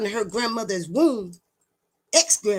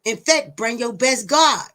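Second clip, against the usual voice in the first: loud challenge; 4 dB louder than usual. Real, not acted. Daring the audience.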